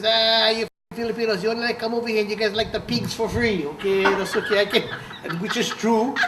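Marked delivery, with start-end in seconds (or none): 0.0-4.8 a lightly voiced old Portuguese man, a bit higher; playfully imitating a grumbling old man; George's pidgin rant. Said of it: "then he would say".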